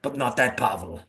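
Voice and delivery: deliberately bad Russian accent; mock Russian accent, lightly done. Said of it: "I do a very bad Russian accent".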